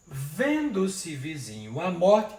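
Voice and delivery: slow, with "vizinho a" joined into one syllable; slow scansion. Shown as a demonstration. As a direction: read it out syllable by syllable, slowly. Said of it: "Então, ó". (escandindo devagar, com elisão)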